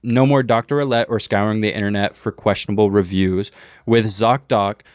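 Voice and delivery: upbeat sponsor read voice. Acted. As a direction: read it like a podcast ad.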